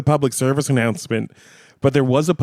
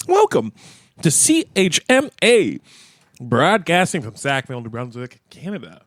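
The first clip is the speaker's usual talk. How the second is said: talking through chocolate; words round a mouthful; mouth full. Real, not acted. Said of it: "so much chocolate in my mouth".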